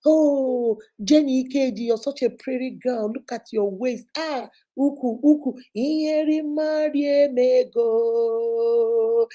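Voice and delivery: a light put-on sweet-talker, the Igbo drawn out slowly; mock flattering man. Mimicking a man flattering her to get a photo, lightly voiced. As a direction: tease the smooth-talking suitor. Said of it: "because the man say".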